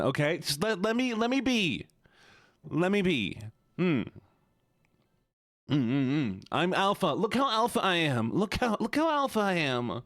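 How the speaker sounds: mock-indignant, squeaky insistence; put-on voice. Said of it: "have to maintain this voice".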